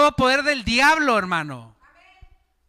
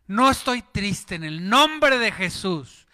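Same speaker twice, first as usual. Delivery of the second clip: slow declaration; 3 semitones lower, slower than usual. Retold or imitated. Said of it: "Y dices".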